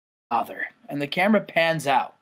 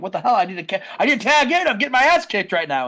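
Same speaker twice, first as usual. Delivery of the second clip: mildly frantic retold complaint; urgent, higher-pitched plea to partners; Sting; 4 semitones higher, 3 dB louder, faster than usual. Wrestler begs partners for tag, mildly exasperated. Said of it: "Sting was like".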